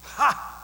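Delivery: short scornful burst of mock laughter; one sharp, gloating "Ha!"; single acted laugh of derision. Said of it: "wisdom says".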